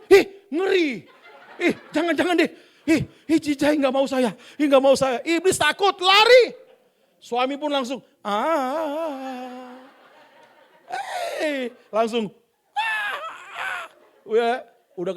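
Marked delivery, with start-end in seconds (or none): 0.1-5.2 disgusted devil. Acted. 8.2-13.8 mock groan. Husband groans.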